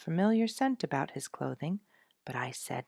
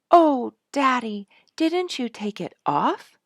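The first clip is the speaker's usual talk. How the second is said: anxious; 10 semitones higher, 12 dB louder than usual. A narrator's reading. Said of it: "Sonya asked anxiously".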